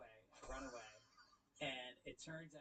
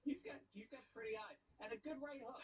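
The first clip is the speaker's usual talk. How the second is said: laughing; 11 semitones higher than usual. Real, not acted. Laughing while speaking.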